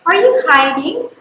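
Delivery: "Are you hiding" with pitch climbing at the end on HIDING; yes-no question, voice rising on "hiding"; rising intonation. Shown as a demonstration. Teacher demonstrating a yes or no question, "hiding" rising at the end. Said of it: "rises at the end of the question".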